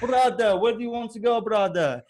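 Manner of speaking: high-pitched Russian cabbie calling you brother; bad Russian accent. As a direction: put on a clumsy Russian accent. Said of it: "I've got this Russian taxi driver".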